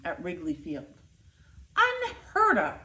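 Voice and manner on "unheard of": concerned citizen. A narrator's reading. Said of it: "said one concerned citizen".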